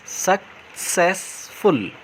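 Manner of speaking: सक्सेसफुल stretched out slowly, syllable by syllable; slow syllable demo. Shown as a demonstration. Teacher showing pupils the syllables of सक्सेसफुल, slow and drawn out. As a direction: drag out सक्सेसफुल so each syllable is heard. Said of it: "ज़्यादा syllables लग रहे हैं".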